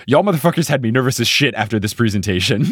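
badly attempted New Zealand accent; Steven Adams. Podcaster quoting a nervous player, half-failed New Zealand accent. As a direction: try a Kiwi accent, not quite landing it. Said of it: "I can't do this in a New Zealand accent".

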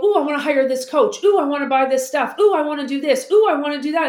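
mock-eager ooh at every shiny thing; gleeful shopping-spree voice; giddy spending excitement. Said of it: "They take that fifteen grand and go".

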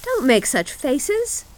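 put-on high, slow child's scolding; little robber girl. A narrator's reading. Robber girl chides weeping Gerda, bossy. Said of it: "said the little robber girl".

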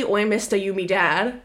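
mock British urchin accent; Rey impression. Co-host parodying the heroine seeking a parent, British accent. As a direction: ask it in a put-on British accent. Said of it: "Rey is literally".

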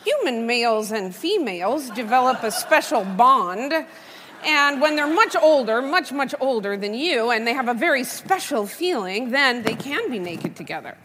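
a touch of slow, lecturing scientist; anthropologist voice. Retold or imitated. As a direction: explain it like a dry field researcher. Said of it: "put my Margaret Mead hat on".

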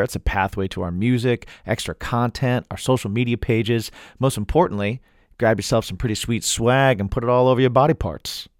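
measured announcer-style plug; podcast promo read. Acted. Host plugging the website to listeners, promo read. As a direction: sell the merch like an ad read.

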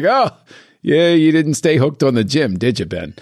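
high mock-sarcastic jab that drops at the end; teasing. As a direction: needle him playfully. Teasing Ben Affleck's weight.

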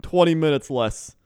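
put-on comic Canadian driver accent. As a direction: assure them like a cocky Canadian driver. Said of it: "need you to use that accent".

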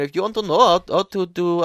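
brief slip into an Indian accent; attempted Indian accent. Shown as a demonstration. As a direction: start an Indian accent, half-committed. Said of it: "I almost did an Indian accent".

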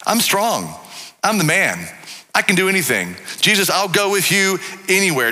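Peter, self-confident. Acted. Peter boasting to Jesus of his own strength, overconfident. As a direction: boast in short, confident bursts. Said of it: "Self-confidence, confidence, if you will".

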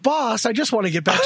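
laughing through the words; can't keep a straight face while pleading. Real, not acted. Joking to the boss about getting back to work, laughing.

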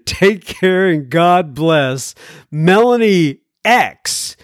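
slow, lilting read-aloud voice; letter read-out. Acted. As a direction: read the listener's letter in measured, singsong phrases. Reads listener's letter.

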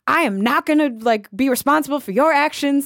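put-on half-managed tipsy Mississippi accent; thick Mississippi accent. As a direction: attempt a scolding Delta friend's Southern accent. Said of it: "I can't even do her accent. It's so amazing. It's so thick".

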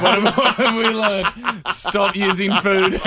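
laughing. Real, not acted. Laughing wrap-up.

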